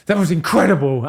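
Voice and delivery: mock elated cheer; excited owner. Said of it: "he was like".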